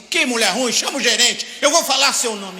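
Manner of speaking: hammed-up furious customer yelling; mock angry customer. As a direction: demand the manager, fuming. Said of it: "Eu preciso falar assim".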